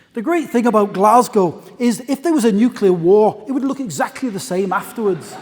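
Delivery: mildly put-on Scottish accent, quoting the comedian; Billy Connolly Scottish accent. Quoting Billy Connolly to a conference audience in a light Scottish accent. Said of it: "I'll try to do a Scottish accent".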